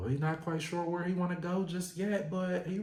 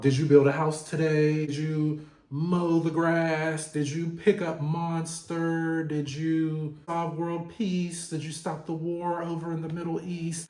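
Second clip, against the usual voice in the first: mocking a demanding father. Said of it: "talking about".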